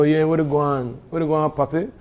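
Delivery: casual, punchy Belizean Creole greeting. Shown as a demonstration. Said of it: "to use Creole".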